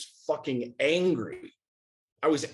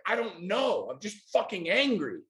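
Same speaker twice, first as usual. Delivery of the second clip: higher-pitched frustrated answer; helplessly exasperated, pitch raised; 5 semitones higher than usual. Retold or imitated. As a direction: retell throwing up your hands in frustration. Retold exasperated answer to coach.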